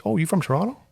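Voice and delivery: high-pitched, perked-up mimicked question; impressed stranger. A stranger reacting to a Toronto native, mimicked high and impressed. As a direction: imitate someone suddenly impressed by a hometown. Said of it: "I see the posh".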